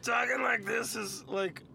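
slow strained comic voice; a hint of a Bobcat Goldthwait rasp. Shown as a demonstration. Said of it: "this is a Bobcat Goldthwait".

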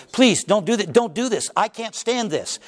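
rising, desperate plea to the Lord; pleading Cain. Acted. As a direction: beg God not to cast you out. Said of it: "Cain cried out to the Lord".

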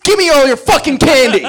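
mock holdup. Mock robbing trick-or-treaters.

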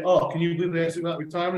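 fast, hammed-up aggrieved quote with a rising "Oh"; mock victim whine. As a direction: play the hard-done-by striker, quickly. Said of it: "rather than to twist that around to say".

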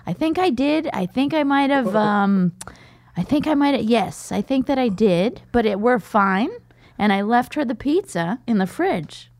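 high, hesitant, guilty admission; reluctant high confession; reluctant dad. Retold or imitated. Reluctantly, he's like.

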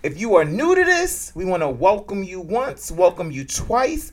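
preacher welcome. Pretend.

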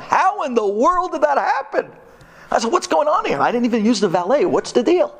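high, outraged at the bill; indignant disbelief. Retold or imitated. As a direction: retell the shock of a quadrupled bill. Shocked at hotel bill.

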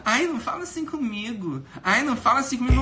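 arremedo agudo de queixoso; cara reclamando. Retold or imitated. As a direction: choramingue mais agudo, zombando de quem reclama. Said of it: "Teve que vir um cara reclamar". (imitação debochada e aguda de ofendido)

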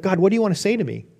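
rushed, fast asking; eager question. Retold or imitated. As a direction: fire it off impatiently. Eager asking God in story.

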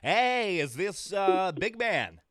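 high, loud upbeat hello; loud phone greeting. Real, not acted. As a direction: call out cheerfully to the caller.

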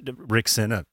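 burp breaking into words. Real, not acted. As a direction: talk through a burp. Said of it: "I'm burping".

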